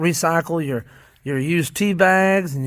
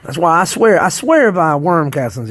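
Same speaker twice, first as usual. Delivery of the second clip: louder, slow and firm; emphatic swearing by; 6 dB louder than usual. Real, not acted. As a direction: really stand behind it. Emphatic endorsement of castings.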